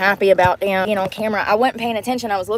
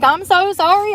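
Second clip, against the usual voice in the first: much higher, imitating her own flustered self; frantic apology; 9 semitones higher, 4 dB louder than usual. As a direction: replay the panicked sorry in a high voice. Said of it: "I'm like".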